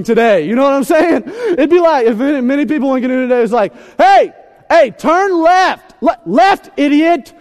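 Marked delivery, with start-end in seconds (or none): 4.0-7.3 mock angry yelling. Imagined couple yelling in canoe.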